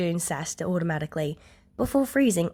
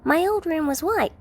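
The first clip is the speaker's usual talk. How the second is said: put-on high little-girl voice, subdued; a small child remembering quietly; child Eri, softly; 10 semitones higher than usual. A narrator's reading. Eri tells June about her old room, high and subdued. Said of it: "Eri-chan says softly".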